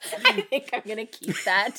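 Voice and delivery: talking through laughter; laughing. Real, not acted. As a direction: laugh it out loud. Laughing at the lost sneeze.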